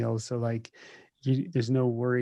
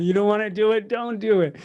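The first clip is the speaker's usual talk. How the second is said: mock emphatic advice; 8 semitones higher, 7 dB louder than usual. Joking advice to burn journal.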